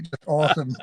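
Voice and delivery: American "awesome", falling; a plain American "awesome"; American accent. Pretend. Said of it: "I saw you guys saying it".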